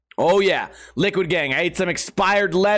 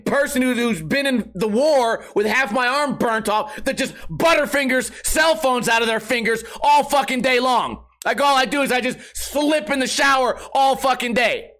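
indignant rant; 4 semitones higher than usual. Retold or imitated. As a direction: tear into her with mock outrage. Ranting back at saleswoman.

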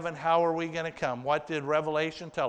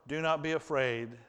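gentle reassurance. Acted. Joseph repeats it to his brothers, gently. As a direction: say it again gently, settling them. The same words repeated, softer.

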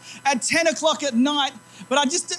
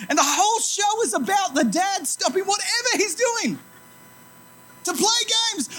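laughing; 7 semitones higher than usual. Real, not acted. Laughs at own realization.

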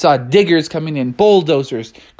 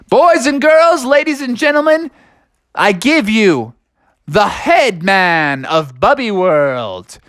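ringmaster announcement; 5 semitones higher than usual. Acted.

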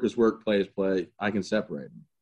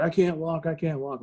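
higher-pitched mock plea of a downed man; imitated distressed plea; 8 semitones higher than usual. Pinned-down soldier to his sergeant, imitated helpless plea. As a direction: plead it in a raised voice, as a retelling. Retold wounded soldier pleading.

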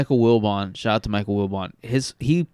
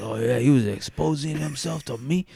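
Cajun witness; 2 semitones higher than usual. Retold or imitated.

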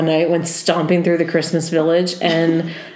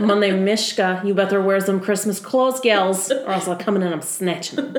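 light Russian cat voice; Russian accent; 3 dB quieter than usual. Pretend. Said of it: "Mishka's voice".

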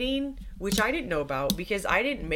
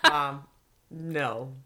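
mock-solemn low murmur, fading; quietly horrified child; 5 semitones lower, 6 dB quieter, much slower than usual. Daughter to mom in the bathroom, hushed dismay. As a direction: lightly imitate a kid's hushed dismay.

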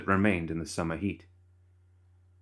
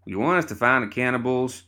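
raised, higher voice cutting in; interrupting loudly; 4 semitones higher than usual. Acted. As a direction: cut in loud over them. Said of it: "Crockett interrupted".

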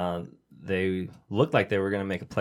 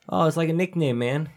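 higher, breezy imitation of a dude explaining; mock casual coworker; 7 semitones higher than usual. Retelling a sketch to friends, higher breezy mock dude. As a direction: toss it off like it's obvious.

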